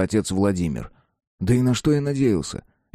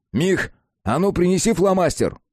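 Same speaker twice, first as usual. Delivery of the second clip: calling out; 9 semitones higher than usual. Acted. Narrator calls to his friend.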